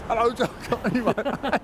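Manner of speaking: a hint of a manic comic's chant; Alexei Sayle. Host showing how the comedian performed in the street, mock-manic. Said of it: "He's like, be a complete maniac".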